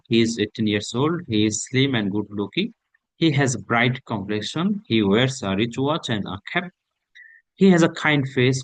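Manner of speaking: slow, deliberate reading of a sample answer; slow model reading. Acted. Teacher reading a sample answer to students, slow and deliberate. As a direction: read it out slowly for students to follow.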